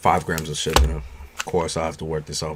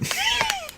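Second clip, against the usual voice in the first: high squealing laugh; 4 dB quieter than usual. Real, not acted. Laughing at crude chat comment.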